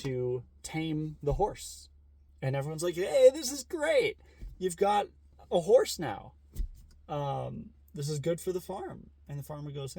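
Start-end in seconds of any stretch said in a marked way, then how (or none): 2.9-9.1 much higher, slow, gushing cheer; high mock-delighted crowd voice; mock villagers cheering. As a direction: gush like thrilled neighbours. Villagers cheer the tamed horse.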